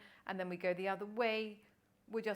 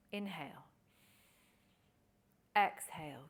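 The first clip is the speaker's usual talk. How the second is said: guided breathing cue. Shown as a demonstration. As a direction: draw out the breath calls gently.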